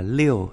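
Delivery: "liêu" pronounced like Chinese liù; "liêu" read the Mandarin way; Mandarin six. Shown as a demonstration. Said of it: "Sáu đọc là".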